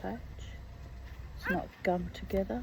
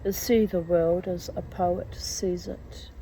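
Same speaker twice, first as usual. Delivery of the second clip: whisper; 5 dB louder, slower than usual. Acted. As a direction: whisper it like a secret. Unvoiced line in the reading.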